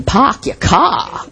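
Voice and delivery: park your car with no r, pahk yah cah, slow; Boston accent. Retold or imitated. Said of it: "In Boston".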